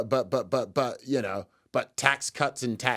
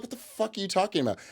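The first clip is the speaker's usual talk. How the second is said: higher, faster indignant retort; mock bafflement; 7 semitones higher, faster than usual. Friend answering a question on Das Kapital, mock-baffled. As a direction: imitate a friend's quick, affronted comeback.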